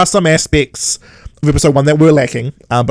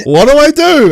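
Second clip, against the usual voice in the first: lost, confused; 12 semitones higher, 6 dB louder than usual. Retold or imitated. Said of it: "looking around like".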